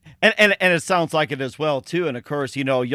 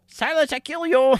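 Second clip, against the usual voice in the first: menacing dummy catchphrase; 10 semitones higher than usual. Acted. Host quoting a puppet's death threat, mock menace. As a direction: threaten like a comic puppet villain, voice pitched way up.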